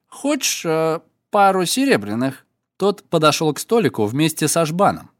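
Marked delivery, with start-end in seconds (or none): 0.1-2.4 put-on drunk voice. Yakhman feigns drunkenness.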